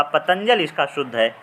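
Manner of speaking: ordinary talk, nothing marked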